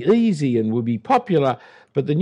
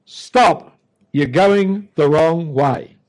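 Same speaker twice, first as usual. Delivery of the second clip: warning sign; 4 dB louder, much slower than usual. Retold or imitated. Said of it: "the message written in bold red and white".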